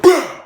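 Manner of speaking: high, very loud "bah"; shouted hit sound effect; explosive punch noise. Retold or imitated. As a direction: burst out with an impact sound. Imitating the punch landing.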